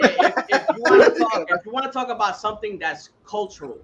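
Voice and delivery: words breaking into laughter at first; laughing while talking. Real, not acted. Host restarting his rant while laughing, laughing speech. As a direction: keep talking through a laugh.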